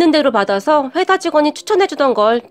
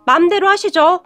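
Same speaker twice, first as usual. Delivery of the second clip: 딱 잘라 말하는 남편; 더 말하지 말라는 듯 단호하게. Retold or imitated. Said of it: "단호하게 말을 하며". (형수에게 선을 긋는 남편, 가볍게 단호한 말투)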